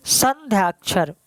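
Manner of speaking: "संध्याक्षर" stretched into slow, separate parts; slow dictation. Shown as a demonstration. Teacher telling students how to write "संध्याक्षर", slow dictation. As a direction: say "संध्याक्षर" slowly so it can be written down. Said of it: "ऐसे आप लिख लें".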